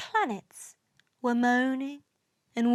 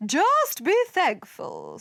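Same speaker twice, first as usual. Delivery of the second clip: higher, put-on scolding voice; indignant retort; 6 semitones higher, 3 dB louder than usual. A narrator's reading. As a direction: snap back at a complainer. Earth rebukes another planet.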